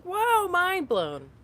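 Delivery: high, drawn-out mock astonishment; slow, loud 'mind blown' reaction, played up; retold amazement. Host retells her reaction to a friend's accent, amazed. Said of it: "you had an American accent, I was like".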